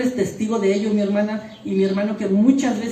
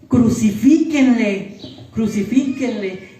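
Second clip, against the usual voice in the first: slow, louder crowd chant fading off; crowd shouting; 5 dB louder, slower than usual. Retold or imitated. Preacher voicing the Friday crowd, slow loud mob chant. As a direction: call for crucifixion like a mob, then let it drop. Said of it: "¿Sabes el viernes que estaban gritando?".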